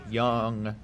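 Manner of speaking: crying-like. Real, not acted. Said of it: "I said it like I was crying or something".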